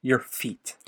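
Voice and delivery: breathy whispered repeat. Real, not acted. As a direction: drop to a hushed whisper. Repeats it in a hush.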